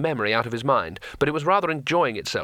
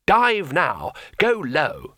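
higher-pitched order to a dragon; urgent command; 4 semitones higher, 3 dB louder, much slower than usual. Acted. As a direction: send the dragon down at once.

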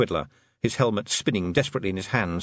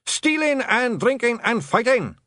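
high, slow, gleeful gang cry; rowdy, cheerful pitched-up chorus; cheerful shout; 13 semitones higher, 4 dB louder, slower than usual. Acted. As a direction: shout it merrily as a clan boast. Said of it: "shouted the blue men cheerfully".

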